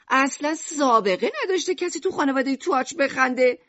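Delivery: high-pitched, incredulous outrage; angry. Acted. Shopkeeper mother rejects that her son laughed, angry.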